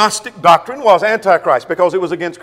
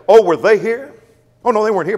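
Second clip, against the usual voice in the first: higher-pitched mock question and answer; imagined questioner; 5 semitones higher, 5 dB louder than usual. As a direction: act out a hypothetical exchange, pitched up. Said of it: "you say".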